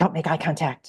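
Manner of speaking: put-on mortified, embarrassed voice. Retelling what a daughter used to say: imitating a mortified daughter. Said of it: "my daughter's mortified".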